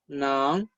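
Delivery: "Nan" with a rising Mandarin tone; teacher's careful rising "Nan"; second tone. Shown as a demonstration. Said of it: "Se pronuncia N A N en segundo tono".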